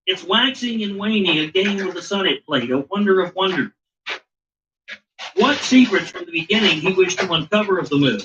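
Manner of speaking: put-on measured, solemn reading of an old text; formal story reading. Host reading the Enki tablets to his co-host, solemn recital. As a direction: read it out like scripture.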